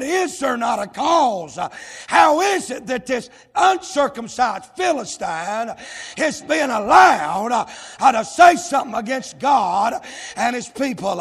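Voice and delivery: loud, indignant challenge; preacher shouting David's outraged question; riled up David. Retold or imitated. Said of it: "that's what riled David up".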